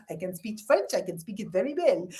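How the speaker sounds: put-on French-accented English; English words in a hammy French accent; mock French accent. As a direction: do a comic eighties French accent. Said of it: "say English words in their accent".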